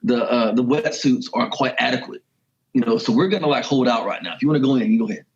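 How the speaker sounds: hammed-up attempt at a Bronx accent; horrible Bronx accent. Imitating the dude from the Bronx backing out, bad Bronx accent. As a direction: badly put on a Bronx accent. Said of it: "I do a horrible Bronx accent".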